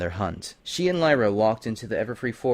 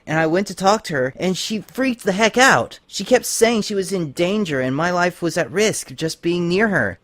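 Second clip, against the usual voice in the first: high, urgent, upset tomboy pony; high, loud, upset pegasus pleading for help; upset Rainbow Dash; 7 semitones higher, 4 dB louder than usual. A narrator's reading. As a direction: blurt it out, worried and agitated.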